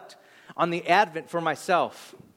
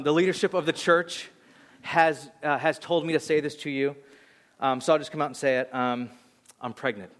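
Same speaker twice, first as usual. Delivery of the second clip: imitating someone reluctantly breaking awkward news; hesitant confession; 3 semitones lower than usual. Girlfriend makes a staged announcement to the youth group, hesitant. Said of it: "she starts like this".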